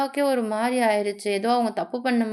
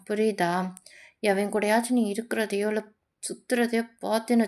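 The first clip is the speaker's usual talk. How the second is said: possessive warning; 3 semitones lower than usual. Acted. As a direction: warn them with contained jealousy. Voices a rapper's possessive warning.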